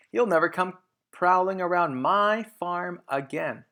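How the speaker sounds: high, loud, put-on voice; angry threat. Boggis yelling his threat at Mister Fox, loud. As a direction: threaten him fiercely.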